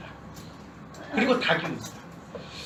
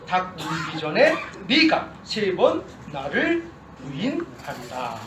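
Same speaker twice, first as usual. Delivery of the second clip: measured, solemn Bible reading; scripture reading. Acted. Pastor reading Scripture to his church, solemn and measured. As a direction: read the passage to the congregation.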